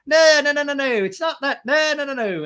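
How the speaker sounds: mock Brock squealing denials; frantic protest. Podcaster mocking Brock's panicked high denial.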